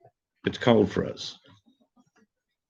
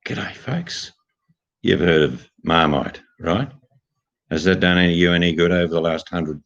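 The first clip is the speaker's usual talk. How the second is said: Aussie ad voiceover. Pretend. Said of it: "if I come on an ad in the U K, Nicole, it'll be".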